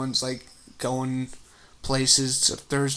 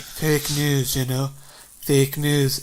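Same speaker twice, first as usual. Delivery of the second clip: Trump impression; much slower than usual. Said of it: "in his little Trump accent".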